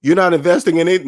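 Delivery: mock disbelief at the answer; incredulous response. Friends hear he doesn't invest in stocks, incredulous. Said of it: "you should hear how they respond".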